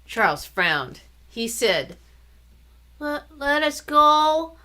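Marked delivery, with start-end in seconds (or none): 3.0-4.6 put-on slow, stumbling little boy reciting; little brother trying out his pageant line, slow and halting; halting recital. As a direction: struggle to remember the line. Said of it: "He paused and frowned harder".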